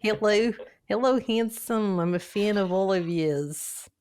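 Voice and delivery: attempted Australian greeting voice; Australian accent. Shown as a demonstration. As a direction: mimic an Australian fan, roughly. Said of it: "when you're Australian?".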